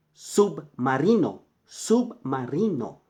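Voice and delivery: submarino said slowly, each syllable clear; teacher modelling submarino; slow model word. Shown as a demonstration. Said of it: "teacher models Spanish word".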